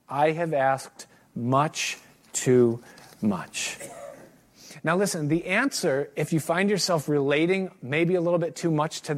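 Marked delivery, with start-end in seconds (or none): 0.1-3.8 remorseful. Acted. Remorseful close of the letter.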